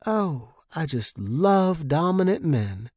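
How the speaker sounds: slow, lightly flirty tease; a playful dig at the man on the radio; teasing. Acted. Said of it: "Allison teased".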